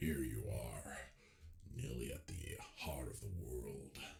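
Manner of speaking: very deep, hushed, rumbling, swooping dragon voice. Voicing a dragon in a story, dragon in Optimus Prime voice. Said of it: "The dragon talks like Optimus Prime".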